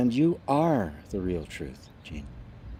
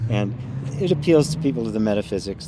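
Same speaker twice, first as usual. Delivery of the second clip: normal talking voice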